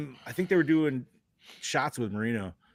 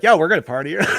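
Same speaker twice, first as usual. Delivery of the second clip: excited; 5 semitones higher, 9 dB louder, much faster than usual. Retold or imitated. Quoting themselves at the parade.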